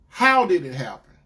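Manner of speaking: dead serious. Retold or imitated. Boyfriend demanding how it happened, dead serious. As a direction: demand an answer in a stern voice. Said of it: "dead serious".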